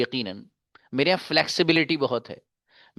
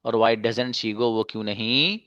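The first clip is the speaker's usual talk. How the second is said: deliberate singsong conjugation recitation; teacher modelling a pattern phrase by phrase; measured drill reading; slower than usual. Shown as a demonstration. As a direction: say each English phrase, then its translation, evenly. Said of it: "इस अंदाज से आप conjugation पढ़ सकते हैं".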